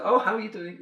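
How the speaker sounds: high, breezy mock greeting; mock-friendly greeting. Hiker to runners being passed, mock-friendly. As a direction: chirp it as you breeze past.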